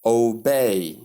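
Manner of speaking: "obey" with a long OH at the start; mispronunciation demo. Shown as a demonstration. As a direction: say "obey" wrongly as oh-bay. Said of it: "is wrong".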